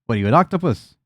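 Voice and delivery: loud, lively ribbing in character; goblin host, teasing. Acted. Goblin host ribbing a guest about several hats and shoes, teasing. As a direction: needle the guest playfully.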